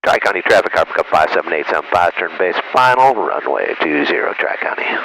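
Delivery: calm radio call to traffic; pilot voice. Shown as a demonstration. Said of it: "Pilot voice again".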